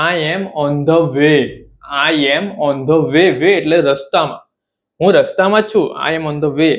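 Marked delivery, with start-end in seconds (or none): 0.1-3.4 slow, word by word; slowly, so students can repeat; slow teaching read. Shown as a demonstration. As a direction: lay it out slowly for learners. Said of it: "હું રસ્તામાં છું".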